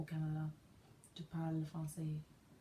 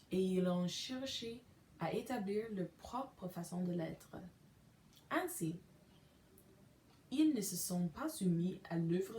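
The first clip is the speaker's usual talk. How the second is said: steady, measured Bible reading; scripture reading. Acted. Reading Romans ten aloud to listeners, measured scripture reading. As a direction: read the verses carefully, as for a congregation.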